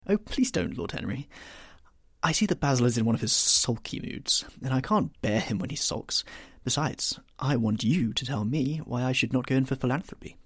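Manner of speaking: a youth who is bored of sitting; lightly voiced petulant lad; petulant young Dorian.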